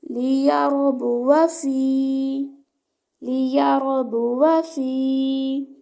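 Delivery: लियरबुवा recited slowly, the या stretched one alif length; one-alif madd. Shown as a demonstration. Teacher models one-alif madd on लियरबुवा for students. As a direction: hold the या in लियरबुवा for one beat. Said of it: "एक अलिफ का time देंगे".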